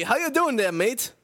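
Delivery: hearty fake Australian accent greeting; bad Australian accent. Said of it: "That is a horrible, horrible Australian accent".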